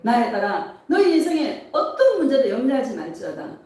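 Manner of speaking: lively prophetic declaration to the congregation; 예수님 음성. Retold or imitated. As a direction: proclaim promises firmly, phrase by phrase. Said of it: "예수님의 음성이 들리는 거예요". (축복을 선포하듯 힘 있게)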